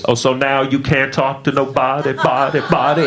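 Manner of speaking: accusing call bouncing down a hallway; echoing voice. Acted. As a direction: repeat the last word like an echo. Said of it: "And it echoed like that".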